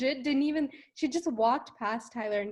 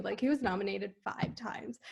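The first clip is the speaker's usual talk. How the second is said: whispering; 4 semitones lower, 7 dB quieter than usual. Real, not acted. Aside about Kevin.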